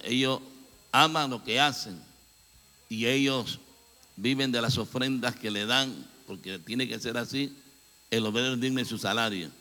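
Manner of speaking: ordinary delivery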